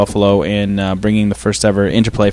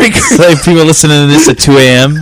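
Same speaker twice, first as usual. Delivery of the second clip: whisper yelling; 3 semitones higher, 6 dB louder than usual. Real, not acted. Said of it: "Why are we whispering on this podcast?".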